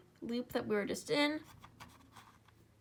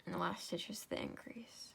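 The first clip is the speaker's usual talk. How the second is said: whispered instruction; 3 semitones lower, 8 dB quieter than usual. Real, not acted. Instruction said under breath.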